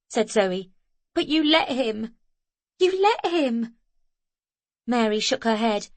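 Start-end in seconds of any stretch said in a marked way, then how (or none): 1.1-3.8 accusing. A narrator's reading. Zoe accusing the girl.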